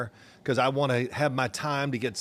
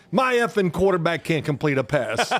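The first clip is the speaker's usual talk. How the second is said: raised, exasperated complaint; mock griping coach; 4 semitones higher, 3 dB louder than usual. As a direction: coach venting about his quarterback. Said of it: "coach answering his wife".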